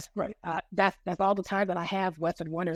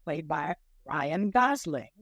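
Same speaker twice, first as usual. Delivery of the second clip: put-on Boston accent. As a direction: pitch it in a thick Boston accent. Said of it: "I got the Boston voice here".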